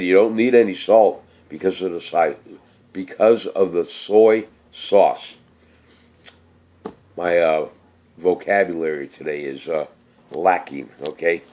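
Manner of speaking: slightly slurred, sluggish words; slurring. Real, not acted. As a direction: slur the words a little, tired. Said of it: "I don't know why I'm slurring".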